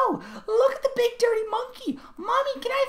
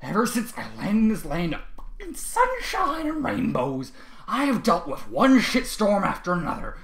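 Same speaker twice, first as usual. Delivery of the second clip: loud, higher, slow yelling; angry shout; 11 semitones higher, 16 dB louder, slower than usual. A narrator's reading. Trevor rants at the class, angry shout. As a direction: hurl threats across the room.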